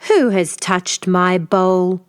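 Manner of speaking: slow, heavy growl; growling father bear. Acted. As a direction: rumble it slowly as the big bear. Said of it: "Father Bear growled".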